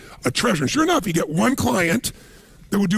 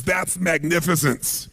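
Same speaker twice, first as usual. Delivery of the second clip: awed; slower than usual. Shown as a demonstration.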